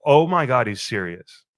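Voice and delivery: loud Oh my God then dropping to dread on he's serious; shocked outburst. Retold or imitated. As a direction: burst out, then sink. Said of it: "I'm like".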